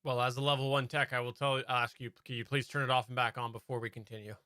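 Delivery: scripted tech support agent, lightly voiced; Dell customer service voice. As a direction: read it like a level one help desk script. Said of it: "This is my Dell customer service ex-, ex-, impression".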